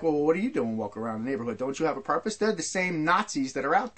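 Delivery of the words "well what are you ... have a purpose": suspicious cop. Retold or imitated. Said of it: "look at you discriminatorily".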